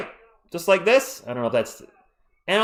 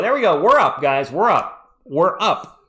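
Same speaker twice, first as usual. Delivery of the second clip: louder, cheering we're up; excited cheering; 4 dB louder than usual. Real, not acted. Streamer cheers the Spurs taking the lead, excited. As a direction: celebrate the lead.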